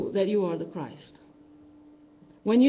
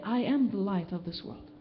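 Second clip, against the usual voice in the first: quiet affirmation; 3 semitones higher, 4 dB quieter than usual. Retold or imitated. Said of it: "you say".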